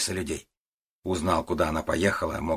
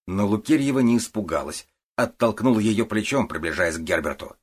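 plain reading voice

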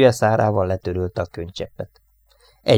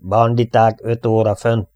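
calling out; 2 semitones higher, 5 dB louder than usual. Acted. Gunner calls out over intercom.

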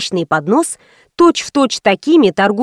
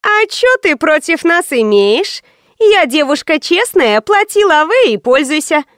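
higher, slow, stretched vowels, cheeky; brassy streetwalker drawl; 6 semitones higher than usual. Acted. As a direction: stretch every vowel like a brazen hooker. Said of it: "противно растягивая гласные, спросила".

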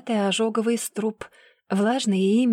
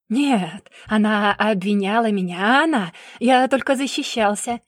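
loud denial; 4 dB louder than usual. Acted. Brother denies loudly.

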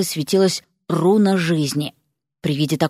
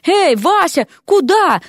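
high-pitched, startled question; alarmed protest; 10 semitones higher, 4 dB louder, slower than usual. A narrator's reading. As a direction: call out as you're dragged off. Дерека тащат, он протестует. (встревоженно, протестуя)

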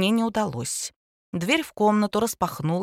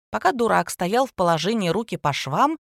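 ordinary delivery, nothing marked

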